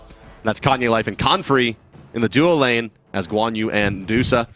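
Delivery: lifted, projected match introduction; esports announcer. Real, not acted. Caster introducing the two teams at game start, announcer delivery. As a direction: announce both line-ups like a ringside caster.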